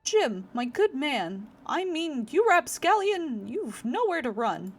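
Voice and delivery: high, loud, pompous challenge; hammed-up heroic demand; grandiloquent knight. Knight cornering the rogue Jim, pompous and loud.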